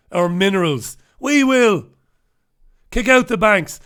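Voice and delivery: defiant leader. Retold or imitated. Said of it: "leaders who said".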